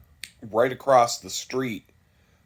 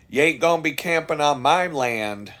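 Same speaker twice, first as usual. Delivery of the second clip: imitating a redneck; 5 semitones higher, 5 dB louder than usual. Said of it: "redneck way of saying".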